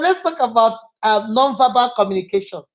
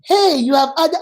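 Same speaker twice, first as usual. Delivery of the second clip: higher, lifted friendly greeting; 5 semitones higher than usual. Shown as a demonstration. Teacher repeating the friendlier take, upbeat. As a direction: greet them openly, pitched up. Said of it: "You see the difference?".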